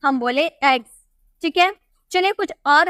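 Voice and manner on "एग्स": एग्स ending in a voiced Z sound; teacher modelling एग्स with a Z ending; final S as Z. Shown as a demonstration. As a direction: say एग्स as "egz", voicing the last S. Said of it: "इसमें जॉ का उच्चारण किए".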